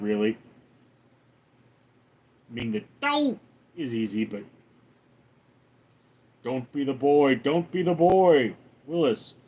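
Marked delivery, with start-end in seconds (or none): 3.0-3.4 short, high-pitched cartoon catchphrase; Homer. Shown as a demonstration. Streamer showing chat the easy Homer line, high cartoon exclamation. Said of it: "can you do Homer?". 6.4-8.6 lightly voiced cartoon catchphrase; Homer. Shown as a demonstration. Streamer attempting Homer for chat, lightly voiced cartoon impression. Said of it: "can you do Homer?".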